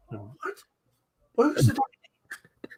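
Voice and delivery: high, slow, teasing jab; slow high mock-innocent retelling; replayed joke. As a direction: savour the punchline slowly. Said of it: "that was funny".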